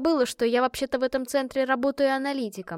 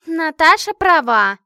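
loud, high, slow mocking parrot; mocking mimicry; 7 semitones higher, 12 dB louder, slower than usual. A narrator's reading. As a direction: mimic her friend with a sneer. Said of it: "кривляясь, передразнила Машка". (кривляясь, громко передразнивает подругу)

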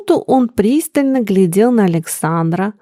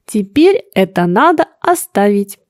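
serious. Acted. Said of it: "серьёзно заговорил он".

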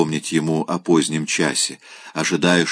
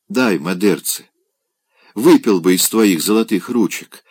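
плача. Acted. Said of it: "плача говорил он".

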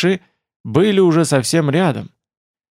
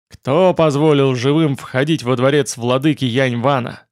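mustache twirling villain. Acted. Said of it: "зловеще прошипел пурпурный дракон".

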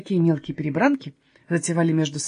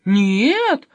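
surprised; 5 dB louder than usual. Acted. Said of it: "удивлённо переспросил Каспер".

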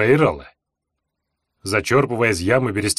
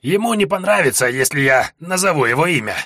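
put-on higher, mumbling old man's voice; toothless mumble; 4 semitones higher than usual. A narrator's reading. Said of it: "прошамкал старик".

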